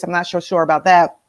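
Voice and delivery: ordinary talk, nothing marked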